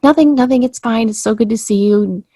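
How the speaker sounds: forced brightness. Retold or imitated. To the friend who hugged her, she covers her pain with forced cheer. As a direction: pretend it's nothing while hurting. Hiding pain after hug.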